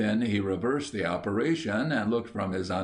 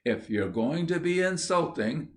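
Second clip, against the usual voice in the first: higher, indignant protest; a huffy fairy queen taking offence; shrill indignation; 7 semitones higher than usual. Acted. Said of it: "in shrill indignation".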